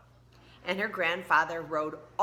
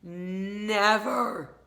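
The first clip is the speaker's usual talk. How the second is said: louder, stubborn declaration; firm never; 3 semitones higher, 5 dB louder than usual. Acted. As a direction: plant your feet on it. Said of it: "said Tina".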